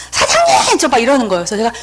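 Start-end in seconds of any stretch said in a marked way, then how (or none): 0.1-0.8 calling out. Retold or imitated. Visitors to the host over blaring music, calling out. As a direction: call out to get the host's attention.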